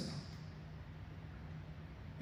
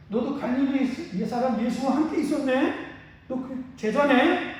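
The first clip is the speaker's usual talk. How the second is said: put-on servant girl accusing; 5 semitones higher than usual. Servant girl questions Peter.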